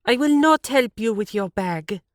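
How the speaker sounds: high, loud flat refusal; curt refusal. A narrator's reading. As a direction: snap it back, loud and high. Siv refuses rudely.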